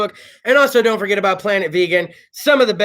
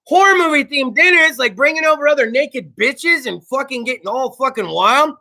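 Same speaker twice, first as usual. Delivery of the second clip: mock surprise; 5 semitones higher than usual. Host retelling his reaction to his girlfriend's idea, mock surprise. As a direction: play it like you misheard something naughty. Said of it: "And I'm like".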